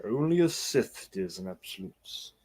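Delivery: distant tv audio bleeding in; movie sound from another room; tv through wall. Real, not acted. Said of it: "I can hear your T V".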